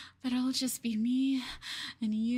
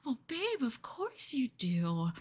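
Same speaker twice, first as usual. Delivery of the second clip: slow menacing whisper; hushed slow whisper; 2 semitones higher than usual. Acted. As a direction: whisper it sweetly but firmly. Telling partner he stays tied.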